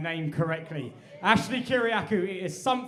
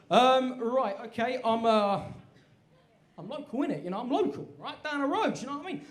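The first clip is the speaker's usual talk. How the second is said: halting, mildly nervous bluff; stall, then insist casually; nervous evasion; 4 semitones higher than usual. Acted. Customer hiding Greek roots from barber, mildly nervous stalling.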